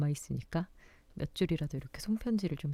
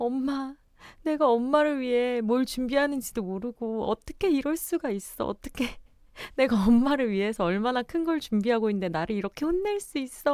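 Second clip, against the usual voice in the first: mock sobbing, tearful, pitched-up child's voice; 7 semitones higher, 4 dB louder than usual. Mother retells scolding her second child, imitating the child crying. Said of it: "하면서 막 우는 거예요".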